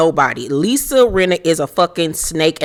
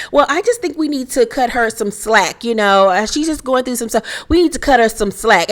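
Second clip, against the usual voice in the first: higher, prim lecturing Kyle; mock Kyle; 4 semitones higher than usual. Vlogger mocking Kyle urging slack, higher and prim. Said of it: "Here come Kyle, that Fox five shit".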